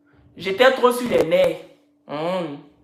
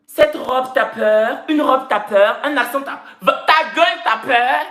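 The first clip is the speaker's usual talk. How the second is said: higher, mocking Parisian talk; hammed-up Parisian put-down; mock Paris slang; 3 semitones higher, slower than usual. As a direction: imitate Paris slang with raised pitch. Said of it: "À Paris, ici, ils disent que".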